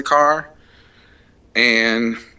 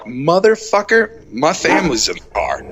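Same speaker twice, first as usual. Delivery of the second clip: angry; 4 semitones higher than usual. Retold or imitated. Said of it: "so I'm pissed off".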